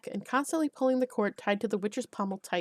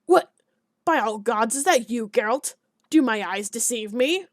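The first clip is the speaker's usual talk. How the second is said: surprised greeting; 6 dB louder than usual. Acted. Alderman greets Geralt in surprise.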